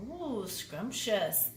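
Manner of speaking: slow, relishing ooh; savoring. Acted. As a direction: drag it out like tasting. Savoring food.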